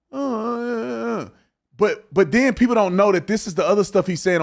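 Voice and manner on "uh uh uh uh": mock stammering guest. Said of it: "and they go".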